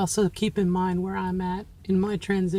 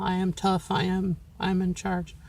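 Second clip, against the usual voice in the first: stoic; 3 dB quieter than usual. Shown as a demonstration. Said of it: "very stoic".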